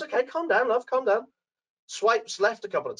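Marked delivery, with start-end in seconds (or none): 0.0-1.3 higher, patronising calm down; hammed-up husband; mock soothing husband. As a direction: settle her down with a pat. Husband soothing his excited wife.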